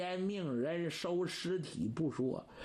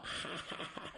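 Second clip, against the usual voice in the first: hearty laugh; 6 dB quieter than usual. A narrator's reading. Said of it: "司徒朗哈哈大笑".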